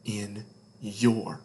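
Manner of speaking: closing a bedtime story, fading to a breath; hushed ending. A narrator's reading. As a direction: let the last words fall away gently. Story's gentle closing lines.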